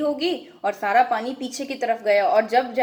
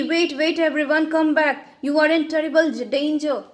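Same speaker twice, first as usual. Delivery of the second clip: urgent warning read out, slightly raised; mild acted shout; 4 semitones higher, much slower than usual. Yuki warns villagers to come back, mildly raised call. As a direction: call them back with a half-hearted shout. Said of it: "यूकी चिल्ला रहा है".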